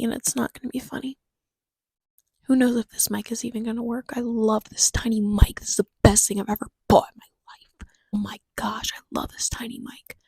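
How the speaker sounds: breathy ASMR murmur; ASMR whisper. Real, not acted. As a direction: whisper it right into the mic. Whispers into tiny mic.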